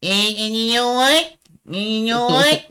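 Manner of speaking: high, loud teasing; excited tease. Real, not acted. Teasing friend after reveal.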